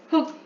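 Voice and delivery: 짧은 가짜 흐느낌; 한 번 '흑' 하고 우는 시늉. Acted. 아들이 울먹이는 연기. (연극처럼 짧게 흐느끼는 소리)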